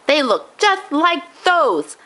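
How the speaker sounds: put-on high old man, slow and suspicious; suspicious growl. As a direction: accuse the officer like a wary grandpa. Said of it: "growled suspiciously".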